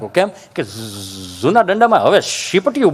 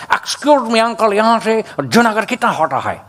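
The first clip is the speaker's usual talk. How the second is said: foreign tourist Hindi. Retold or imitated. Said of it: "ભૂરિયા દાદાને હું પૂછ્યું".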